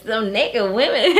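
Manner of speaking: put-on old lady voice. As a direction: drag it out like a sweet granny. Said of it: "she got that old lady voice".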